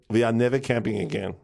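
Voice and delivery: put-on mum's Dutch accent, lightly done. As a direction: imitate a Dutch mother laying down the law. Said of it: "I'm allowed to do the accent".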